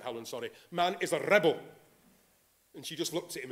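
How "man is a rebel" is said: put-on rough stab at a Welsh accent, louder; attempted Welsh accent. Preacher quoting Martyn Lloyd-Jones to the congregation, attempted Welsh accent. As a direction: imitate a Welsh preacher's accent, half-confidently. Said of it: "I can't do the Welsh accent".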